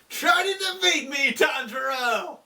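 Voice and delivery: high challenging yell of a name; mock villain shout. The demon king shouts a challenge at the hero. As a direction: hurl the dare up at him.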